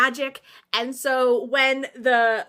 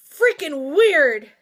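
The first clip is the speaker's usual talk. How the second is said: slow, loud disgust; freaked-out disgust; grossed out; 6 dB louder, much slower than usual. Real, not acted. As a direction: drag it out, creeped out. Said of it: "reacting with disgust".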